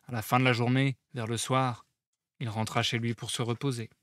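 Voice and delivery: calm storytelling read-aloud; story narration. A narrator's reading. Reads the Symposium aloud.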